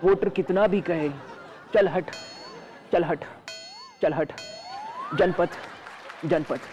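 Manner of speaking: chanted refrain, lines dropping away; mock poem recital. Reciting the satirical poem on camera, mock declaiming. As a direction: declaim each line, let the refrain fade. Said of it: "एक कविता पेश करने जा रहा हूँ".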